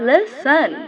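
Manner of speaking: listen with no t sound: lis-en; silent t. Shown as a demonstration. Teacher repeats listen for students, t left silent. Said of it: "टी silent है".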